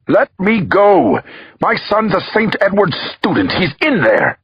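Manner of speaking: frantic, high desperate shout; yelling. Acted. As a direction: yell it, pushing past police. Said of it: "he yelled".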